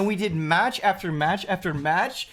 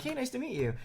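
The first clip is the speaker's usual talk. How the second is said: higher, softer friendly hello; light, friendly quoted greeting; smiling friendly greeting; 6 semitones higher, 8 dB quieter, faster than usual. Retold or imitated. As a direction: imitate a smiling stranger's gentle greeting. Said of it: "he has a smile on his face".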